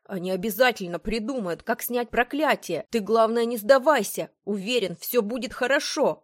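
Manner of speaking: rally a friend who is giving up; urgent encouragement. A narrator's reading. Patrick urging Florence not to give up, urgent encouragement.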